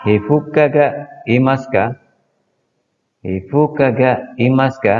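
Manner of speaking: Hifuka ga imasu ka, said high and deliberately; slow model sentence. Shown as a demonstration. Teacher modelling the third question for the class: slow and clear. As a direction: spell out each word of the drill. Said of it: "Yang ketiga".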